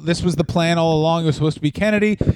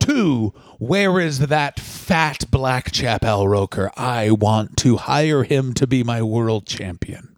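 lowered mock Vince voice, fast then dragging; gruff Vince impression; 4 semitones lower, slower than usual. A lowered mock Vince McMahon voice addressing the Today Show host.

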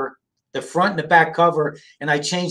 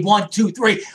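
loud countdown; 4 semitones higher than usual. Shown as a demonstration. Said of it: "On three".

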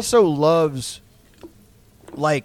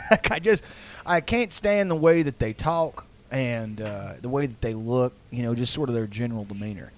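put-on Texas accent; 4 semitones lower, 4 dB quieter than usual. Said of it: "like, in a Texas accent".

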